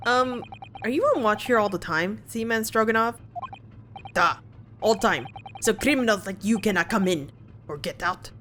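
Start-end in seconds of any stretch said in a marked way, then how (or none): 4.1-8.3 lightly done Russian sailor, boastful; a guard bragging in a mock Russian accent; bad Russian accent. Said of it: "my very bad Russian attempt".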